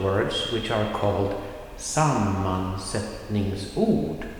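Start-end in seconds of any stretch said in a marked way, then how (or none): 1.8-4.3 "sammansättningsord" drawn out syllable by syllable; slow pronunciation. Shown as a demonstration. Teacher introducing "sammansättningsord" to Swedish learners, slow pronunciation. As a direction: say "sammansättningsord" slowly and carefully.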